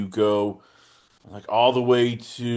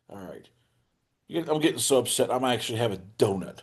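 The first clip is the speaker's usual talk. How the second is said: imitating a sulky cohost, softer and fast; mock upset friend; 2 semitones lower, 6 dB quieter, much faster than usual. Host teasing his cohost, mock grumbling quietly and fast. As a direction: mutter it like a sulking dieter caving in. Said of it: "you're upset mood".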